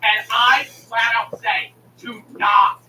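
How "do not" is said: "Do not" pressed hard and loud; firm emphatic delivery. Retold or imitated. Streamer retelling his order to support, firmly emphatic. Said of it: "I say it like this".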